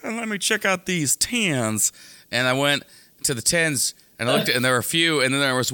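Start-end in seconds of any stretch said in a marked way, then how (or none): 0.0-1.9 mock excited shopper. Mock inner voice at store.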